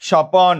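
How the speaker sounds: স্বপন as "sho-pon", long second syllable; inserted vowel in স্বপন. Shown as a demonstration. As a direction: stretch an o between p and n in স্বপন. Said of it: "স্বপ্ন থেকে". ("স্বপন"-এ প-এর পরে টানা অ)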